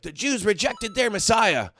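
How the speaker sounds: mock Christian voice. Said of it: "the Christian's like".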